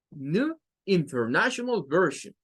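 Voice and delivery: New with a rising nu, International Version; one variant. Shown as a demonstration. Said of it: "varias maneras de decirla".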